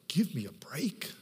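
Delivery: slow unvoiced whisper of disbelief; inner whisper. Pastor thinking to himself at a wedding, whispered disbelief. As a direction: breathe it out under your breath. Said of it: "Inside I was going".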